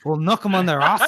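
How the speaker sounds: hammed-up mock Geordie; Newcastle accent. Host copying his co-host's demo, hammed-up Newcastle accent. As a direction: badly imitate a Newcastle accent. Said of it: "it's like a, a Newcastle accent".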